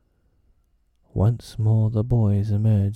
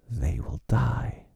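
gloating villain; 5 semitones higher, slower than usual. A narrator's reading. Hook gloats.

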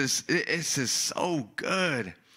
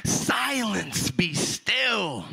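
higher-pitched command, drawn out; stern rebuke; 5 semitones higher, much slower than usual. Acted. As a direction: command the waves to settle, without shouting. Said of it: "he rebuked the wind".

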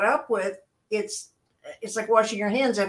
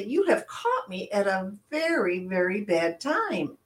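drawn out and a little softer; slow emphatic brush-off; 4 dB quieter than usual. Retold or imitated. To a phone caller mid-spiel, slow pointed brush-off. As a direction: stretch out very, very bad time to a caller. Telling callers it's a bad time.

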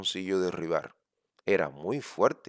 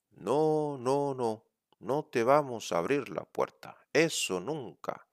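little pig voice; 5 semitones higher than usual. Acted. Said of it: "aulló así".

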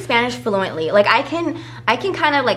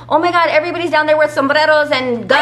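raised, louder gushing with a laugh; mock excited outsiders; 5 semitones higher, 3 dB louder than usual. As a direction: imitate clueless tourists gushing. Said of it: "they're like".

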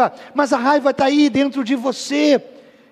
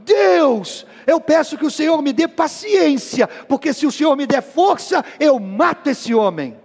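raised, half-joking exasperated prayer; a fed-up wife praying through gritted teeth; wife's comic prayer; mock prayer; 5 semitones higher than usual. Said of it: "faz uma oração".

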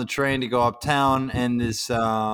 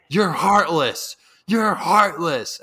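slow, higher, louder reproach; imitated accusation; 5 semitones higher, 4 dB louder, much slower than usual. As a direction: drag it out accusingly. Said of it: "And he goes".

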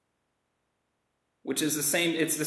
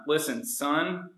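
gentle father. Retold or imitated. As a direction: plead with him tenderly. Quoting Capone as the father.

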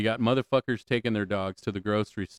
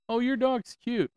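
high, slow, hammed-up sweet voice; mock cooing over a cute dog; mock cooing stranger; 13 semitones higher, slower than usual. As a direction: imitate a gushing dog lover, much higher. Mocking people who praise dog.

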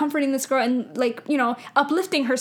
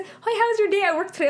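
imitating little Camila; 7 semitones higher than usual. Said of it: "She said".

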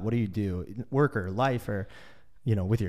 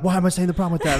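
exasperated; 7 semitones higher, 6 dB louder, faster than usual. Retold or imitated. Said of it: "I'm like".

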